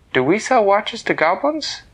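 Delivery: put-on shocked girl questioning her father; startled high voice; surprised question.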